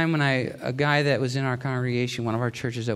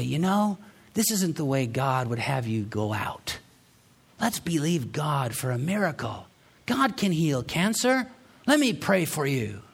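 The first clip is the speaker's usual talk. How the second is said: quoted well-meaning believers. Retold or imitated. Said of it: "they felt like it was their obligation to say".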